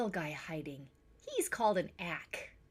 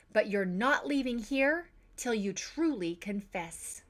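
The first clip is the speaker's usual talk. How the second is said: stern scolding. Acted. Parent scolds over the vase.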